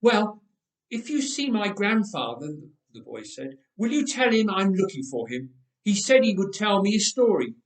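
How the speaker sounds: a friendly little boy, voiced up high; child voice. Little boy speaks to Ehud.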